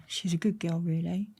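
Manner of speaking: a soft, understated fatherly line; dad's quiet advice. Retold or imitated. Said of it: "coming out that dream thinking".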